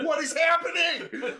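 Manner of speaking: high, slow, laughing what-is-happening; laughing disbelief. Retold or imitated. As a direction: squeal it through laughter. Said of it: "I was like".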